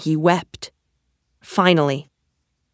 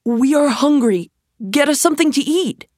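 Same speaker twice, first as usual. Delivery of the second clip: high-pitched, urgent demand; pitched-up young hero giving an order; Aladdin; 8 semitones higher than usual. A narrator's reading. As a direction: raise the pitch, press the request. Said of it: "Aladdin said".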